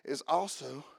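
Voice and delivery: measured, solemn reading of the verse; scripture reading. Acted. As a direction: read it like holy scripture. Reads scripture aloud.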